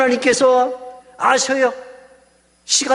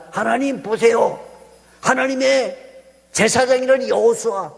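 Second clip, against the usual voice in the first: a higher-pitched hint of an accusing devil; lightly voiced accusing devil; 4 semitones higher than usual. Devil denouncing Joshua before God, lightly acted accusation. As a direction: lightly act out an accuser pleading his case. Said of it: "마귀가 하나님에게".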